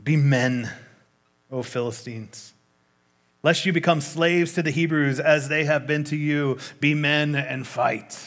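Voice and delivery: a light William Wallace rally; rallying speech. Acted. Philistine captain rallies his troops, a lightly voiced battle speech. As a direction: rouse the troops. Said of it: "he's got a speech".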